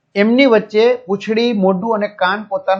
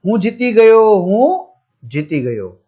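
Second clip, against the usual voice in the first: gleeful shout. Acted. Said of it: "તે જોર જોરથી બૂમો પાડવા માંડ્યો".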